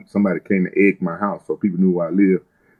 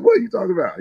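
retold surprise; 10 semitones higher, much faster than usual. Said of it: "I was like".

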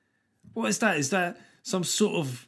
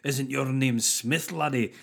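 slow, mock Scottish questioner; badly faked Scot, drawn out; bad Scottish accent; slower than usual. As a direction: do a deliberately clumsy Scottish accent. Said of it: "with a really bad Scottish accent".

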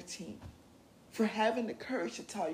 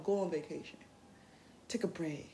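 softer, kind advice; gentle; 3 semitones lower, 3 dB quieter than usual. Shown as a demonstration. Gently telling people they deserve a break. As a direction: ease them into resting. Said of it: "Don't be aggressive with it".

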